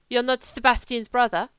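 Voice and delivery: a hint of a lazy wolfish German drifter; German legionnaire. German voiced in the story.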